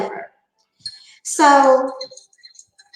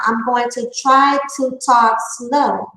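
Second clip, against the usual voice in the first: measured, deliberate pacing for the listener; slowed-down talk. Retold or imitated. Retelling her offer to a struggling listener, deliberately slowed. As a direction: spell it out a little slower, retelling an accommodation. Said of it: "so let me slow down".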